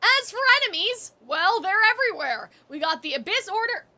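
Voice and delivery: lightly voiced hearty dorm-character swagger; a hint of a Gaston-like character; Vargas voice. Streamer reads Varka's letter aloud in a light Vargas voice. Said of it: "That was my Vargas voice".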